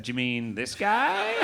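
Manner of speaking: slow, knowing mock bribe; unhurried wink in the voice; sly offer. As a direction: hold out the bill slyly.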